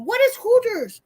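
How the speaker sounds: imitating Joey. Mimics Joey on the phone.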